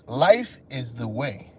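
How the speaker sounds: low, soft, slow sermon line; low slow preaching. Shown as a demonstration. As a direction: intone it like a guru. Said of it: "repeated for effect".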